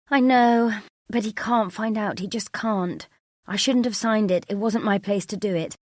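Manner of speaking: words tumbling out in worry; panicked. Acted. Emily confessing to her sister on the phone, panicked.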